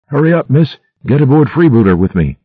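shouted back. A narrator's reading. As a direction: urge her aboard at a shout. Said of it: "he shouted back to Viola".

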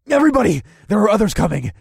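loud, high alarm call; shouting warning. A narrator's reading. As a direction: call out to everyone. Calling out warning.

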